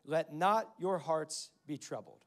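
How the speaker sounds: slow, measured words of comfort; gently deliberate, settling their worries. Retold or imitated. Jesus to his panicking disciples, slow and comforting. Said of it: "is comforting the guys".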